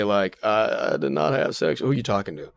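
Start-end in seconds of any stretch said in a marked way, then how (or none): 0.4-1.8 Bill Clinton impression. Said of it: "he gonna still just gonna say".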